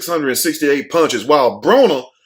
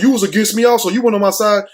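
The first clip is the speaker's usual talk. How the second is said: mocking Broner; 5 semitones higher, faster than usual. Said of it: "Talking about".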